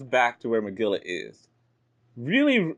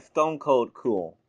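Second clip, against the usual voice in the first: Roxy voice; slower than usual. Acted. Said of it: "She said".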